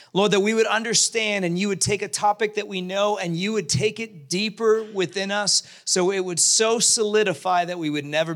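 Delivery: earnest, measured prayer voice. Real, not acted. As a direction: pray it out to the Father. Opening prayer.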